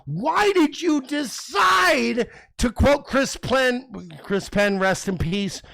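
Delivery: mock-outraged shouting at his co-host; heated shout. Real, not acted. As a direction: drag it out, shouting him down.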